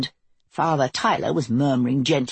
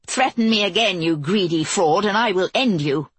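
furious threat; 2 semitones higher than usual. Acted. Queen's furious retort.

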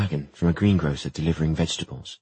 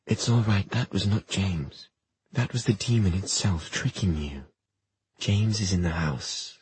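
calm her down gently; reassuring; 2 semitones higher than usual. Acted. Jem reassuring.

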